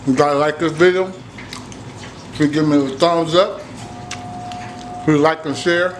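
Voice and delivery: talking with mouth full. Real, not acted. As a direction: talk around a bite of food. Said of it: "I'm sorry if I'm talking with my mouth full".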